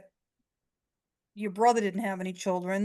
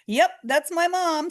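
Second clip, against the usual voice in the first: excited; 9 semitones higher, 4 dB louder than usual. Retold or imitated. Daughter confirms excitedly.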